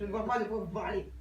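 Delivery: loud, defensive denial. Acted. Passenger loudly denies the driver's accusation, defensive.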